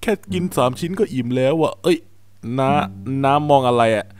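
put-on kid voice. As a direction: play the small boy answering his uncle, scared at the end. Streamer voices the lost kid. (เด็กผู้ชายตัวเล็กคุยกับน้า)

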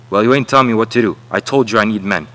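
loud, rushed and irritated; a fast, loud dismissal of the worker; fast angry retort. Acted. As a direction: push the words out fast to shut him down. Contractor quarrelling with Floyd.

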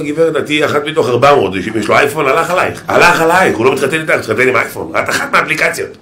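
hint of a preacher warning; warning the girls. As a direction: scare her a little. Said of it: "אני אומר לה".

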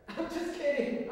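laughing through I'm just kidding; amused, a little guilty. Real, not acted. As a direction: giggle the words out. Laughs off dress joke.

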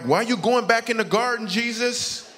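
high and loud mock disbelief; mock exasperation. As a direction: plead with Jesus, baffled. Exasperated at Jesus dying again.

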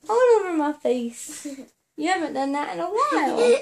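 laughing, half crying; laughing tearfully. Real, not acted. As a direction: laugh through the kisses. Mother laughing while being kissed.

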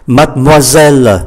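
"Mademoiselle" run together in three syllables; natural pronunciation. Shown as a demonstration. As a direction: say "Mademoiselle" with silent inner and final e. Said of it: "Các anh chị để ý". ("Mademoiselle" đọc liền ba âm tiết)

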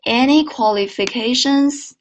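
slow rise on any; mind the tone. Shown as a demonstration. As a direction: ask it as a yes-no question, slowly. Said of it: "注意声调啊".

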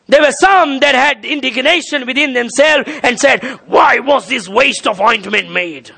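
forceful pulpit reading; emphatic scripture preaching. Real, not acted. Preacher reading of indignation at wasted ointment, emphatic preaching. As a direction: declaim the verse to the congregation.

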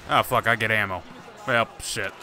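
low, badly faked Russian accent; put-on Russian accent, deadpan. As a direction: grumble it in a mock Russian accent. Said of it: "this bad Russian accent".

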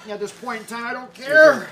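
shouting it out loud, fed up; a real loud outburst of giving up. Real, not acted. Loud outburst during spicy challenge. (громкий крик)

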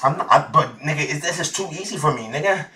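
breathing hard during plank; strained, out of breath; heavy breathing. Real, not acted. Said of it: "Why are you breathing so hard?".

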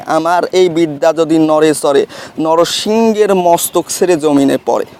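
measured, rhythmic verse recitation of a mantra; reciting a spell. Shown as a demonstration. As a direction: intone the incantation line by line, steady beat.

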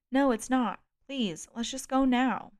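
pleading to leave now; desperate plea. Acted. Kate insists, desperate to leave.

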